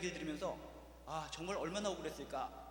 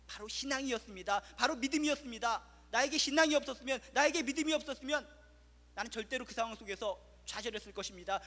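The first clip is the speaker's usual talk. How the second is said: 열정적인 간증; 4 semitones higher, 5 dB louder than usual. Acted. 신앙 간증을 힘차게 전함.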